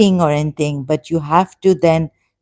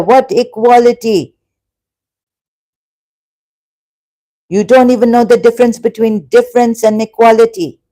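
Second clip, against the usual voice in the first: passionate, higher-pitched arguing; raised voice; 3 semitones higher, 3 dB louder than usual. Real, not acted. Arguing with Abdullah Sahi over equality, voice raised. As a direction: argue heatedly, pressing each point. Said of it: "by raising my voice".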